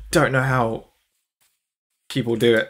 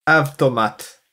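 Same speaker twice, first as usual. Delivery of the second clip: "Avtomat" in a put-on Russian accent; light mock Russian accent; slower than usual. Shown as a demonstration. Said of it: "in a Russian accent".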